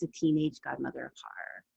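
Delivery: breathy whispered joke tacked on; whispered aside. Real, not acted. Host whispers a joke about herself to viewers. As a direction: whisper it like a secret to the camera.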